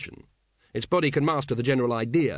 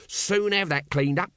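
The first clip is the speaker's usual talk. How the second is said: higher, mildly chirpy promise; cheerful; 6 semitones higher, slower than usual. A narrator's reading. Nobby offering to clean up for a lady, cheerfully. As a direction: take your time, cheerfully obliging. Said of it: "volunteered Nobby cheerfully".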